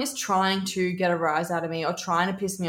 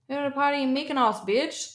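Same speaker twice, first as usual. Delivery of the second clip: Lindsay Lohan; 6 semitones higher than usual. Retold or imitated. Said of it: "Lindsay Lohan".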